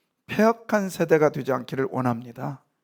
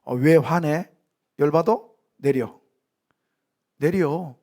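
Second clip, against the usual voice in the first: mock scolding; slower than usual. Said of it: "저 같으면요, 그랬을 거예요".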